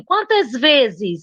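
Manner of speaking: "Quantas vezes" slowly, dragging each s; drawn-out S. Retold or imitated. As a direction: imitate her pulling on the S in "Quantas vezes". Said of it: "Ela puxa no S".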